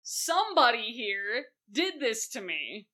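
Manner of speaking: mock exasperation with whoever spoiled dinner; exasperated host. Host fed up with a raven at dinner, exasperated. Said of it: "And he's like".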